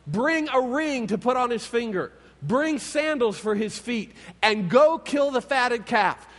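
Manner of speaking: father announcing his son's return to the servants, joyful; joyful announcement. Acted. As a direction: ring out the orders to celebrate. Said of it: "And his dad announces".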